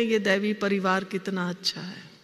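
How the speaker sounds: calling out the lie in a sermon, quietly mocking; mocking quote. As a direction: repeat the nice phrase as a hollow lie. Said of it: "फिर हम झूठ क्यों बोलते हैं".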